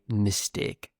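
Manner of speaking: northern English "mistake", second vowel a pure "eh" with no glide; northern English accent. Shown as a demonstration. Teacher from the north of the UK shows learners, northern English accent. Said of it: "If you want to say it like me".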